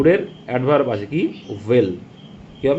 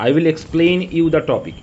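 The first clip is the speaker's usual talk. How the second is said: 1 slow read-out; much slower than usual. Shown as a demonstration. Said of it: "এইভাবে হয় না".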